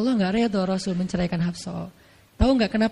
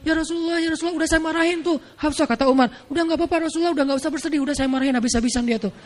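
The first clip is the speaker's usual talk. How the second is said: higher, eager consoling father-in-law; eager reassurance; 5 semitones higher, faster than usual. Acted. Umar assuring the Prophet Hafsah was scolded, eager and higher. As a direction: hurry to comfort the Prophet.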